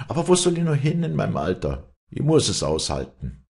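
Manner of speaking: lightly voiced old farmhand, dialect complaint; klagender alter Knecht. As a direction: lament your lot as an old labourer. (klagender alter Knecht im Dialekt)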